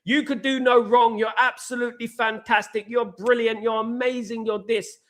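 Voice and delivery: butter him up, hammed-up; gushing flattery. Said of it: "continually saying".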